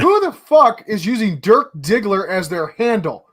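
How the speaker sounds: high-pitched mock-indignant boss; hammed-up incredulous chief; exasperated chief. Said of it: "I can just see that manifest".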